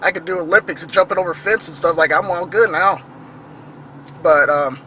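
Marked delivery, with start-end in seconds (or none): 0.0-3.0 higher, brighter mock boast of fitness; mock perky bravado. Mocking the pregnant passenger's sudden bounce, high and fast. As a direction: sarcastically imitate her sudden energy. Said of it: "Then next second".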